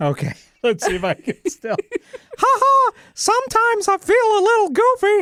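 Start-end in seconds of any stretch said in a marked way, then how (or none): 2.4-5.2 squeaked out, high and slow. In a Mickey Mouse voice-off with another speaker, doing a Mickey Mouse voice. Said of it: "Let's have a Mickey Mouse voice off".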